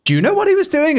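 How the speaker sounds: imitated question. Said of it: "retold question".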